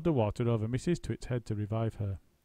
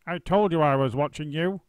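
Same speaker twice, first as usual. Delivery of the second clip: louder, higher gloating cackle; old wife cackling in triumph; 5 semitones higher, 8 dB louder than usual. A narrator's reading. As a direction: gloat like a witch. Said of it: "cackled Missus Twit".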